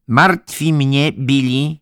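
high, loud, slow show of worry; changed tone, concerned. A narrator's reading. Head nurse working on Billy's guilt, pointedly worried. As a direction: draw out the concern, pitched well up. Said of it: "Słyszałem zmianę w jej głosie".

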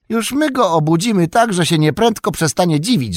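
high, loud, defiant threat; defiant boast. A narrator's reading. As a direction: threaten with relish. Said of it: "rzekł Mary". (Merry buńczucznie, głośno grozi)

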